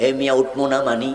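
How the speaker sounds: usual speaking voice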